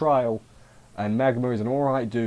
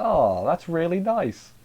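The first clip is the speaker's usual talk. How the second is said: slow, higher-pitched sentimental coo; touched; 6 semitones higher, slower than usual. Retold or imitated. Viewer reacting to a birthday gift, touched. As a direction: draw it out, moved by the gesture. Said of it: "This kinda got me".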